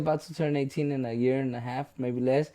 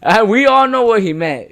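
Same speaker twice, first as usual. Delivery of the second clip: high, loud, through laughter; laughing while talking; 6 semitones higher, 6 dB louder than usual. Real, not acted. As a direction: talk through the giggles. Laughing at the gaffe.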